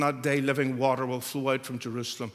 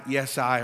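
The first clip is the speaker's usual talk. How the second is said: I pressed a little louder; stress on I; 4 dB louder than usual. Shown as a demonstration. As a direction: lean on I. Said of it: "the emphasis".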